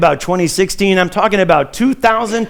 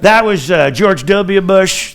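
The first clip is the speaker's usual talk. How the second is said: put-on Bush Texas accent; slower than usual. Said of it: "That's the southern accent from Texas".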